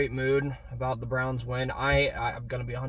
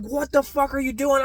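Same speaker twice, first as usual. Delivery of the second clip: high, loud exasperated yell at the coach; retold angry yell; 12 semitones higher, 4 dB louder than usual. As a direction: scream it at the TV in disbelief. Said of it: "I'm sitting there screaming with my dad".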